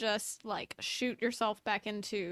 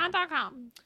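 a hint of a teacher's warning; mock-schoolteacher echo; imitating a teacher; 4 semitones higher than usual. Echoing the teacher's rule in a mock teacher voice. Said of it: "my elementary school teacher taught us".

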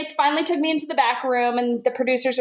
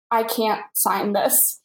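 slow, low, halting refusal; mock tearful; 5 semitones lower, slower than usual. Crying prank victim refusing the paperwork, mock tearful. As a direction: imitate holding back tears, understated. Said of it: "I just start crying again".

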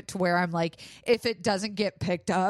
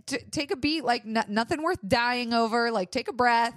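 nice reassurance; 5 semitones higher than usual. Retold or imitated. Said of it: "she was really nice".

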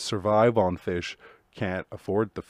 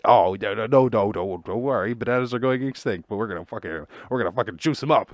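mock scientist. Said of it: "scientists are always like".

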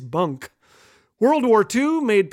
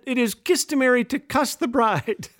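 laughing; 4 semitones higher than usual. Retold or imitated. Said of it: "but said".

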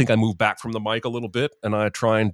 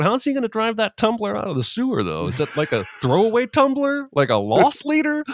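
high, incredulous mocking question; 11 semitones higher, 3 dB louder than usual. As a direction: ask it like it's absurd. Reads his own mocking joke.

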